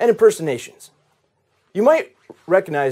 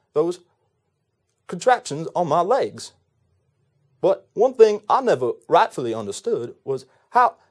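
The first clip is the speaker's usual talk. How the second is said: Forrest Gump. Acted. Gump recalls Jenny and the short bus, earnest halting impersonation. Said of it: "a very special impersonation for you".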